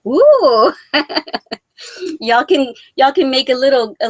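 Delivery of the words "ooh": high, loud drawn-out "ooh"; excited ooh. Real, not acted. Crocheter reacting to a viewer's biker shawls, excited ooh. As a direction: let out a big impressed ooh.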